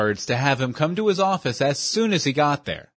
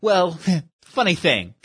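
nervous cracking laugh; 4 semitones higher than usual. Acted. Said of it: "with a crack in his voice".

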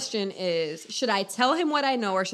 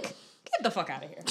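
laughing; 7 semitones lower, 8 dB quieter than usual. Real, not acted. Laughing dismissal.

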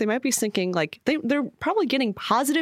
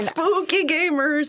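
spooky voice; 9 semitones higher, slower than usual. Pretend. Mock spooky reveal.

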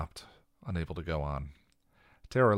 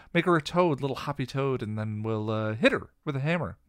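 high, loud, rushed babble; nervous chatter running away with her; frantic rambling; 10 semitones higher, 10 dB louder than usual. Acted. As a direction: Anya flustered, throwing out wild ideas. Anya rambling in panic.

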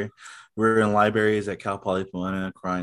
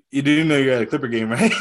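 laughing retort; 5 semitones higher, 6 dB louder, faster than usual. Retold or imitated. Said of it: "I was like".

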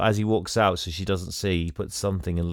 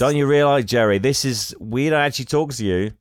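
mocking scold; 4 semitones higher, 3 dB louder than usual. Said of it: "they're like".

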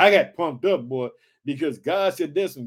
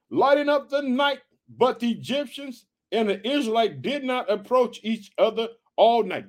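measured, slightly raised reading voice; scripture reading; 3 semitones higher than usual. Acted. Pastor reading Exodus to the congregation, measured reading voice. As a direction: read the Bible passage out steadily.

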